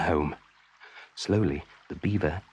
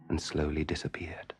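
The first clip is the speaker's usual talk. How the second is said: fading whisper; 4 semitones lower, 8 dB quieter than usual. A narrator's reading. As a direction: let the words fade into a soft whisper. Ripples fading on the water.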